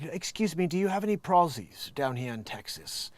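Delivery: mock British accent. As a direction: politely ask in a put-on British accent. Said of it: "Apparently he's a Brit".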